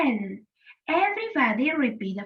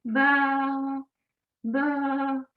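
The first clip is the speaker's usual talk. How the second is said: lightly imitated sheep baa; a held, level baa, only slightly sheep-like; sheep bleat. Teacher asking children to name the animal, light sheep bleat. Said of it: "an animal that says".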